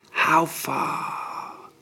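breathless whisper; dying man's whisper. A narrator's reading. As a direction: barely breathe the question. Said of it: "whispered Horus".

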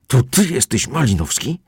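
yelling. A narrator's reading. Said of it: "wrzeszczał".

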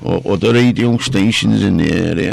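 slightly affected voice; a touch of mock character voice; put-on silly voice. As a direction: keep up a lightly put-on voice. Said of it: "talking in this voice".

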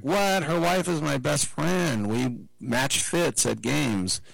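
high, indignant mock wife voice; outraged wife. Kittle's wife protesting the team's decision, high and indignant. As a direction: play her as a shocked, offended best friend.

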